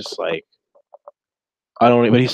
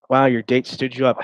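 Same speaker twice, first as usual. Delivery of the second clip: mock taunt; 3 semitones higher, 4 dB louder than usual. Mocking bullies imagined.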